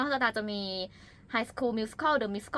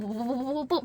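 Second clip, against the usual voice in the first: imitated rapid talking; 4 semitones higher than usual. Guest shows rushing a TikTok under a minute, rapid-fire. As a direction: rattle off quick repeated syllables. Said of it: "หนูก็จะพูด ... ให้มันไม่ถึงนาที".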